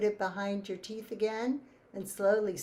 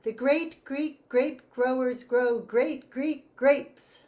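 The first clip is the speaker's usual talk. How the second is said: slow tongue twister; 3 semitones higher, 5 dB louder, slower than usual. Shown as a demonstration. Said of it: "So the first one is".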